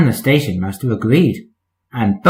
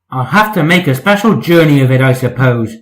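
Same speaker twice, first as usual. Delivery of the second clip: grumbling. Acted. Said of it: "grumbled Percy".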